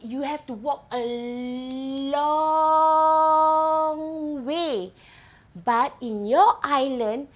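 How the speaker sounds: acted sarcasm with an exaggerated, stretched "long"; sarcastic. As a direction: play a mocking doubter, dragging out "long". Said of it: "being sarcastic and say".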